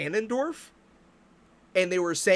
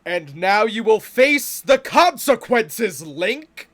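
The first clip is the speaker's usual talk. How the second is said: slow, louder mock Ganondorf line; hammed-up villain threat, drawn out; 4 dB louder, slower than usual. Mocking how Ganondorf shouldn't sound, slow mock villain. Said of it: "I don't think a guy goes".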